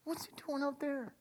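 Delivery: hushed startled question; surprised whisper. Retold or imitated. Father hearing his son is out in the field, whispered. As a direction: whisper it in disbelief. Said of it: "And the father goes".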